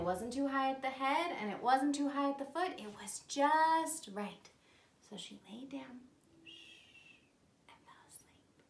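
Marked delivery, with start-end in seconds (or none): 5.1-8.6 fading down into a whisper; hushed bedtime narration. A narrator's reading. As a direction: drift softly off to sleep. Goldilocks falls asleep.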